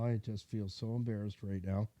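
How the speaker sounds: softly admitting embarrassment; embarrassed mumble. Retold or imitated. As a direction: drop the voice, ashamed of the car. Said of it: "put your head down and go".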